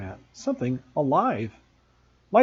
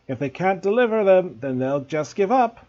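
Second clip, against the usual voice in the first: mouth full; 4 semitones higher, 5 dB louder than usual. A narrator's reading. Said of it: "through a mouthful of nails".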